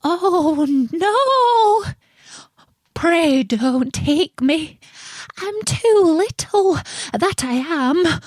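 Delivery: very high, small frightened voice; tiny pleading goat. A narrator's reading. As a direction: beg the troll in a tiny squeak. Little goat pleads with troll.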